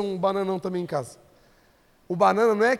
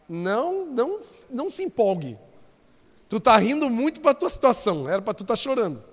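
normal talking voice

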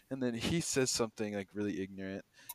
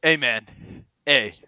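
stoned customer; 13 dB louder, slower than usual. Retold or imitated. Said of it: "he walks up to me and goes".

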